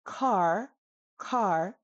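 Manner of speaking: breathy K opening "car"; "car" with enough breath to flutter paper; aspirated K. Shown as a demonstration. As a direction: say "car" with a puff of air on the K. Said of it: "see how the paper flutters".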